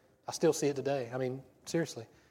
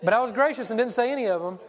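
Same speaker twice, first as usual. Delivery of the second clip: laughing; 8 semitones higher, 5 dB louder than usual. Real, not acted. Laughing at the memory.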